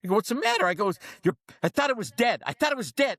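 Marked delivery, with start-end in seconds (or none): 0.2-0.7 high-pitched baffled question; retold bafflement. Baffled reply to angry dentist. 1.2-3.2 retold scream. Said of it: "he was screaming at me".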